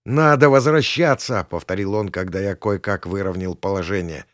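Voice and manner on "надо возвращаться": urgent alarm. A narrator's reading. Panicked passenger urges turning back.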